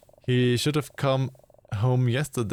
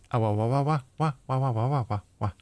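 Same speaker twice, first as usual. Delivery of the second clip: playful wah-wah noises; faster than usual. Pretend. Playful nonsense noise while chatting.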